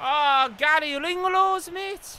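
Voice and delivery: put-on Scouse accent, high, slow, drawn out. Reacting to a play during the match: put-on scouse accent. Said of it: "I need to really stop with this Scouse accent".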